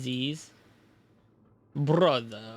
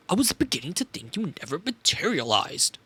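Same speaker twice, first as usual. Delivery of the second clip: mock German professor voice. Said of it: "evil Professor German voice".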